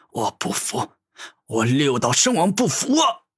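seething villain, shouting his defiance; a wounded king refusing to yield; angry. Acted. Wounded Six Paths Holy King rages at Gu Tianming, furious. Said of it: "无比愤怒地说道".

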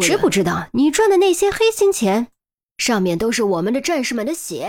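furious outburst, shooting up high mid-speech; venting fury. A narrator's reading. Officials vent at the unmasked mole, furious outburst. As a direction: let the pent-up rage out. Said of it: "内心的怒火一股脑发泄了出来".

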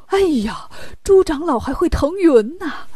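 mildly startled exclamation; a touch of amazed wonder; startled king. Acted. King sees Pigsy ride off on a cloud, startled. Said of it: "吓了一跳".

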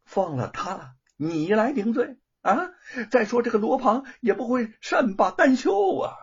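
scolding. Acted. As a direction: scold the foolish servant. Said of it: "范谷骂道".

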